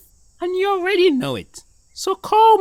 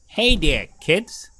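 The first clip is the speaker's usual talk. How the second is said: a lightly voiced kindly pigeon; pigeon puppet voice; 12 semitones lower than usual. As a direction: play Mister P the friendly pigeon.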